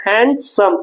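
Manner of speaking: हैंडसम divided into हैंड and सम; two separate units. Shown as a demonstration. Teacher demonstrating units of speech, हैंडसम said in two parts. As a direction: pronounce हैंडसम as two distinct beats. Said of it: "दो unit में बोल रहे हैं".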